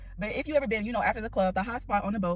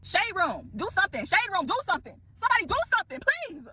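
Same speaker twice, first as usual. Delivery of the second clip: mock plea; 8 semitones higher than usual. Mock plea to gossip page.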